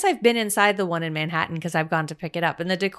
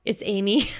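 laughing; 3 semitones higher than usual. Real, not acted.

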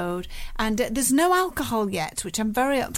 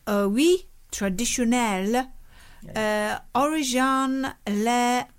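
mock French reading. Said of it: "French speaking people out there wetting themselves laughing at that".

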